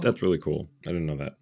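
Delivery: talking through a yawn. Real, not acted. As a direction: yawn while you say it. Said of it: "Sorry, I'm yawning 'cause I'm tired".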